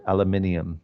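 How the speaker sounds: aluminium with the stress on MIN, al-yoo-MIN-ee-um; teacher models the English aluminium, stress on min; aluminium said the English way, five syllables; British pronunciation. Shown as a demonstration. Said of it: "they say it completely different".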